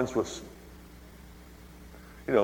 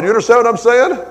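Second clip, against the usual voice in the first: much louder and higher, all-out preaching shout; preacher's shout; 9 semitones higher, 10 dB louder than usual. Real, not acted. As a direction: shout it over the congregation. Preacher shouting, wife's accusation.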